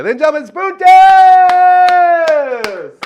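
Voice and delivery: booming high announcer call; ring announcer. Acted. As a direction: belt out the name like a wrestling announcer. Ring announcer introducing friend.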